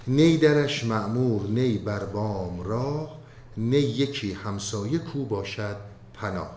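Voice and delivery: slow, measured recital of classical verse; poem recitation. Acted. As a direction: chant the couplets slowly, with weight.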